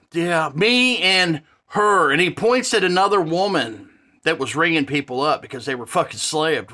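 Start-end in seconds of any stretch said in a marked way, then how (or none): 0.1-2.1 slow, drawn-out sheepish mumble; mock evasive manager, dragged out slowly; stammering manager. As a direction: imitate the manager sidestepping, stalling on each word. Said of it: "stammering and sidestepping the best he could".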